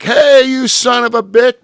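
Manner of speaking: loud high jeer at the driver; angry fans yelling. Retold or imitated. Fans in the stands, mock angry yell. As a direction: heckle him like an angry crowd. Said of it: "they're like".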